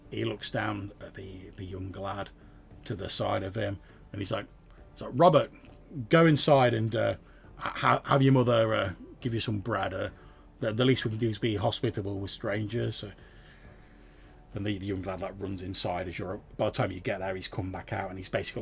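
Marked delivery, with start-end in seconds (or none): 5.1-12.9 put-on farmer calling his boy, louder at first; lightly voiced farmer ordering his son. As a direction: send the lad inside, then settle.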